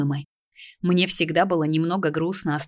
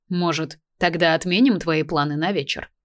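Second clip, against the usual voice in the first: hoarse voice. Acted. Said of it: "хрипло предложил Давыдов".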